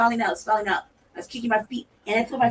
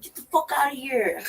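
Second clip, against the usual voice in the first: laughing shoo; 2 semitones higher than usual. Retold or imitated. Shooing the rat, laughing.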